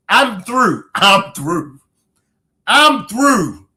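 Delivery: helpless laughter breaking into crying; repeated through tears of laughter; laughing till crying. Real, not acted. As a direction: give up between fits of tears. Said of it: "I got tears coming down my eyes".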